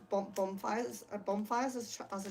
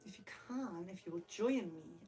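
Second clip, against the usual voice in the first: much softer, dropping the volume; 3 semitones lower, 6 dB quieter than usual. Real, not acted. Vlogger inviting viewers to relax, softer voice. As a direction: bring it down to a hush. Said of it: "how quiet I can speak".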